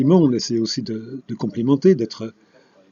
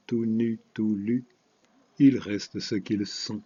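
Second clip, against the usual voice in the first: slow, measured verse reading; poem recitation; slower than usual. Acted. Poet reading verse to open a literary programme, measured poem recitation. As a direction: recite line by line with deliberate pauses.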